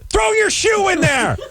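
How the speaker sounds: very high, slow, laugh-broken shout; laughing mock yell. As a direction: yell orders while cracking up. Imagined cook yelling, laughing.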